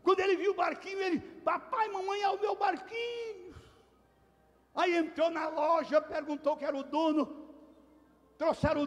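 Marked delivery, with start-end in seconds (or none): 1.4-3.6 put-on excited child. Menino vê o barquinho na vitrine.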